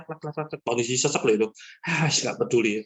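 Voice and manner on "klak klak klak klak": imitated clacking. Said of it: "regulatornya saya pasang".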